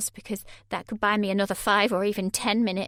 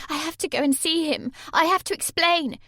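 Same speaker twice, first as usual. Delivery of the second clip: higher, louder, defensive; protest, voice pitched up; Sammy upset; 7 semitones higher, 4 dB louder than usual. A narrator's reading. Sammy arguing with Mark, higher and louder.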